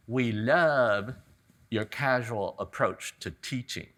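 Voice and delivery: a light Southern drawl on a retold compliment; lightly voiced Southern woman, pleased; Southern accent. Workshop student praising the teacher, mild Southern accent. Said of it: "in a wonderful Southern accent said".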